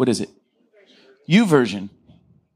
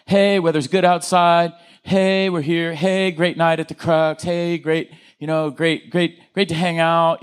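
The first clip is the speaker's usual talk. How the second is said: bland small talk; slower than usual. Shown as a demonstration. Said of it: "Level two is facts".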